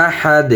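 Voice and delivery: "আহাদ" stopped on the D, no "un" ending; pausal form. Shown as a demonstration. Teacher showing how to pause, "আহাদ" without its ending. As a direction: end "আহাদ" falling on a released D. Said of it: "ওকফ করলে".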